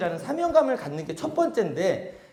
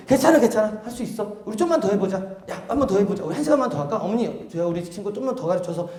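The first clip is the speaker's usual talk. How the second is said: encouraging. Acted. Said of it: "이런 대화 자체가 다 바뀐다".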